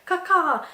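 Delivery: loud caw caw imitation; crow caw. Shown as a demonstration. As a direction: call out like a crow. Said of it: "you have the crow sound".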